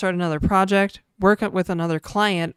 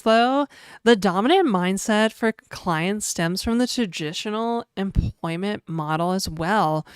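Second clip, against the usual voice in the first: put-on e-girl voice. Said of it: "Oh, like, e-girl voice".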